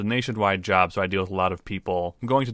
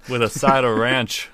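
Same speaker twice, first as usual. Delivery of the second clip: put-on Midwestern accent; 2 semitones higher, 6 dB louder, slower than usual. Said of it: "hope that's the accent".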